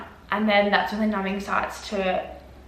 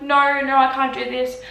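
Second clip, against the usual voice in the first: raised, louder mock protest; retold panicked refusal; 4 semitones higher, 3 dB louder than usual. Patient misunderstood over the music, retold panicked protest. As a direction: re-enact frantic refusing. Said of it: "I was screaming".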